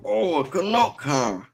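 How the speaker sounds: put-on high, sing-song Canuck accent; redneck Canadian accent. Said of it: "you sound like a redneck Canadian".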